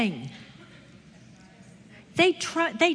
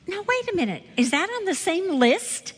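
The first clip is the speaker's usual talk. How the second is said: protesting in a higher, emphatic voice; incredulous protest; 4 semitones higher than usual. Retold or imitated. Bible teacher arguing with God over a list of sins, incredulous. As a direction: push back in higher-pitched disbelief.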